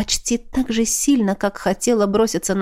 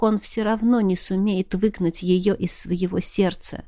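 ordinary delivery, nothing marked

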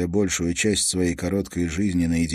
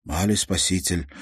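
reverent echo. Acted. Uncle Iosip repeats the hero's name in reverent awe. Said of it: "благоговейно повторил Иосип".

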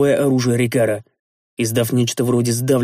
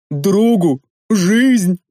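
loud, higher outraged bark; barked retort; 6 semitones higher, 5 dB louder, much slower than usual. Acted. Big man barks at master over saving the gnome. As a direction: snap each word back at him. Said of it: "рявкнул здоровяк".

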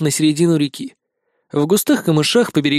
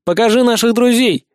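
put-on higher, louder boy; cool the hyena's zeal; firm demand; 6 semitones higher, 4 dB louder than usual. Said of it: "охладил пыл гиены Никитка". (твёрдо, звонко)

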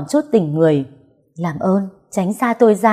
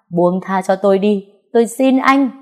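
desperate plea; 3 semitones higher than usual. Acted. Heroine begging to be released.

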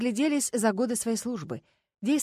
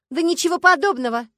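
high, loud yelp of denial; indignant squeal; 9 semitones higher, 9 dB louder than usual. A narrator's reading. Starkova denying they buried grandfather cheaply, squealing indignantly. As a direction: squeal it out in protest. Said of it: "взвизгнула Аграфена Дамировна".

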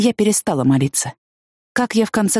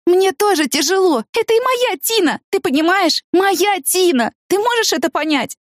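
tearful cry; 13 semitones higher than usual. A narrator's reading. Woman crying at silent friend, high anguished shouting. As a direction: make him hear your grief. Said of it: "я раз за разом кричала ему".

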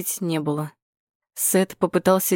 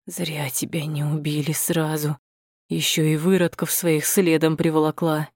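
put-on hateful old man. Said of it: "От ненависти у него сразу пропала шепелявость".

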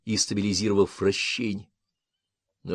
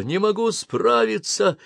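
higher, slower desperate repeat; panicked shout; 12 semitones higher, 4 dB louder, slower than usual. Acted. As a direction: plead it to yourself, slowly. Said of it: "кричал пилот".

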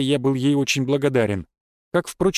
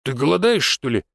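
a touch of concern in the question; slightly worried. A narrator's reading. Finn asks whether his guest is starving, slightly worried. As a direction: check on them with understated worry. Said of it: "В его голосе послышались нотки беспокойства".

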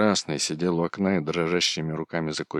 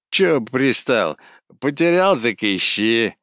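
rising annoyed retort, louder and higher; irritated snap; 5 semitones higher, 6 dB louder, slower than usual. A narrator's reading. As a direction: brush him off with rising irritation. Кузьма snaps back.

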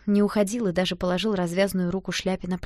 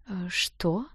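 taken aback; 5 dB quieter than usual. Acted. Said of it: "опешила Шляпа".

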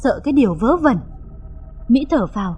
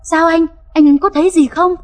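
raised, eager pitch; anxious, hasty question; 5 semitones higher than usual. Acted. Wife questions husband as he returns, anxious. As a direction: press him for an answer. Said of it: "Mỹ hấp tấp hỏi".

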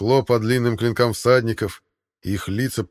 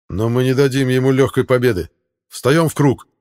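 rallying shout; 4 semitones higher, 6 dB louder than usual. A narrator's reading. Hauk rallies warriors.

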